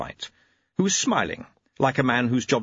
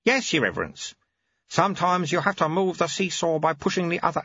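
put-on a lightly raised, dry old monk voice; wry, patient old teacher; knowing old monk, a little higher; old monk Lutze; 7 semitones higher than usual. Lutze explains.

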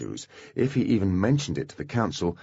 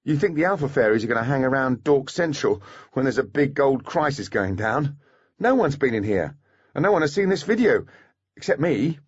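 snorting, scornful; 5 semitones higher than usual. Acted. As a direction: scoff at the question. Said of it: "Maine snorted".

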